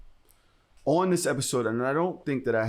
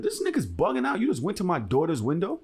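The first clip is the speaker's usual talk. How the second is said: higher-pitched indignant retelling; incensed; 4 semitones higher than usual. Retold or imitated. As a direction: recount it with indignant disbelief. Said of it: "I was incensed".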